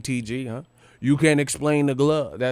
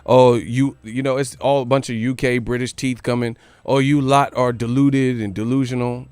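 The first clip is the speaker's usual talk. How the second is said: loud mocking British voice, jeering; hammed-up London lad taunting; mock British accent; 4 dB louder than usual. Vlogger mocking British critics in a loud British accent. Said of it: "old media saying".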